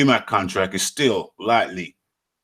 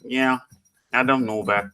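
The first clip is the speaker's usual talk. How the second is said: put-on Mexican accent; 2 semitones lower than usual. Boxer answering a viewer's comment, put-on Mexican accent. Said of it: "my Mexican accent is like".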